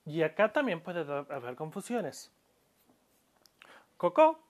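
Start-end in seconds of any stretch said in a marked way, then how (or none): 4.0-4.4 Coco with short vowels; the word Coco, quick and unstretched; Coco, both o's short. Shown as a demonstration. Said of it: "sin estiración, es aquí".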